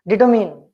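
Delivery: "Determine" with the R silent. Shown as a demonstration. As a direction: say "Determine" without the R sound. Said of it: "Ra is silent".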